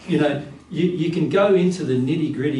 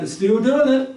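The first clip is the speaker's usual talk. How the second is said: put-on a much higher, delighted toddler voice; 11 semitones higher, 4 dB louder than usual. Toddler marvels at its own wobbly standing, pitched high and delighted. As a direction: squeak it out like a proud toddler. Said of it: "And it's going".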